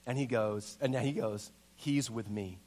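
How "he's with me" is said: low, soft and calm; quiet vouching. Retold or imitated. Acts Mark calmly vouching for him.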